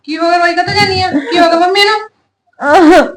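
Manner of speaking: slow, drawn-out worried call; alarmed call. Acted. Sister-in-law alarmed, calls out. (ਘਬਰਾ ਕੇ ਉੱਚੀ ਪੁੱਛਣਾ)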